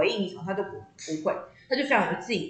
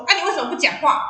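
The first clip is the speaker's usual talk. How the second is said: pitched up, pleading why won't you talk; exasperated plea; 7 semitones higher, 4 dB louder than usual. Retold or imitated. Daughter begging silent mom, higher exasperated plea. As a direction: whine at mom for her silence.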